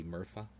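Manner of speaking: "Murpha" ending on an open "ah"; silent final consonant. Shown as a demonstration. Correcting a friend's French guess, "Murpha" with no final consonant. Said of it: "only vowels that they normally pronounce".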